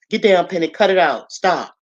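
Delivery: loud, firm scolding; loud telling-off in quick bursts; sharp command. Real, not acted. Scolding a pet mid-talk.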